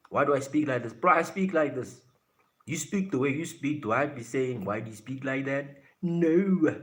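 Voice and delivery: high, loud and defensive; indignant retort. Real, not acted. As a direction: push back at being questioned on it. Defends how he speaks.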